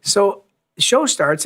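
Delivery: usual speaking voice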